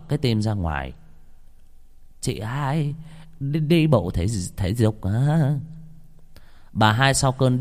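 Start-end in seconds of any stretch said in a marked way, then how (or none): 2.2-5.6 higher, lightly voiced old woman, slowing at the end; a hint of a chatty old neighbour asking; old woman greeting. Old woman greets startled friend.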